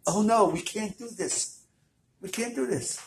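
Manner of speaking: panicked. Acted. Rebbe panicking to wife.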